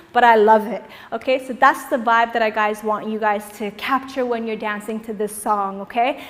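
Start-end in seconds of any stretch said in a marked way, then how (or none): none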